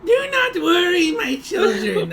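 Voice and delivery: put-on high, slow, grand voice calming her children; soothing villain. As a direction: reassure her brood like a scheming matriarch. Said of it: "a voice from behind them says".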